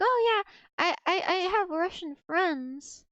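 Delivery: a light, high-pitched imitation of a Russian accent, loudest on "Oh"; mock Russian accent. Retelling the teacher's words to the chat in a light Russian accent. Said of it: "He had, like, a Russian accent".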